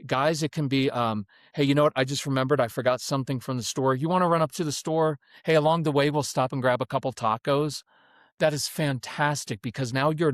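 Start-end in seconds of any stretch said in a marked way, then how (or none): 1.6-7.8 brisk, casual offhand suggestion; matter-of-fact. Shown as a demonstration. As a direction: toss it out like an everyday errand. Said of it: "Even matter-of-fact tone".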